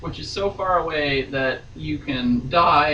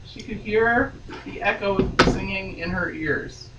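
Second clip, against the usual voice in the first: steady read-aloud novel voice; story narration; 3 semitones higher than usual. A narrator's reading. Reading novel aloud on podcast.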